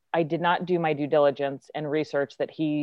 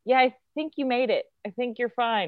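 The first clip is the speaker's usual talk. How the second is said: higher, easy reassuring tone; imitating Bill Hader; 7 semitones higher than usual. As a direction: reassure her casually the way he did. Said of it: "just the way he was like".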